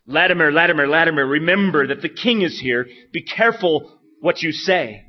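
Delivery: loud stern royal warning; the king booming a warning at the preacher; King Henry's warning. Retold or imitated. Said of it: "he said to Latimer".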